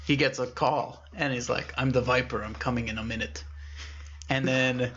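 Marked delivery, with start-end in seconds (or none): 1.8-3.4 lightly raspy menace, trailing softer; hint at the raspy caller. Acted. Viper giving the final warning, lightly raspy. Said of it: "it was a very raspy voice".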